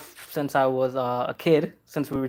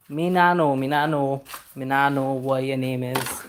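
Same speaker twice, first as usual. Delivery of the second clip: put-on Caribbean accent. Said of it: "Horrible accent".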